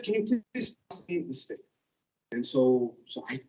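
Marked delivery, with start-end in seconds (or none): 0.0-1.6 put-on a soft, polite older lady asking; lightly voiced auntie, quiet and polite; elder aunt's request. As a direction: ask gently like an auntie.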